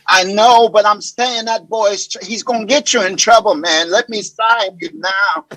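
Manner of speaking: lightly voiced, crying-ass actor impression; Terrence Howard. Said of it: "he sounds just like Terrence crying ass".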